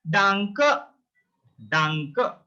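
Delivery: danke ending in an "a" sound; danke, drawn out to show the final "a". Shown as a demonstration. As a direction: model danke for learners, last E said as "a". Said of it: "it's sound like a".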